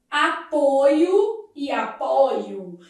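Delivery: "apoio" twice, changing the stressed o; slow, contrasting o sounds in "apoio e apoio"; varying vowel. Shown as a demonstration. Teacher showing students pronunciation variation, contrasted vowels. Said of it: "a variação de pronúncia".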